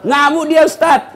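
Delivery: loud, high cry that she's raging; mock alarmed shout. Husband crying out to the preacher that his wife is raging, shouting. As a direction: shout out the alarm, half joking. Congregant voiced, wife rages.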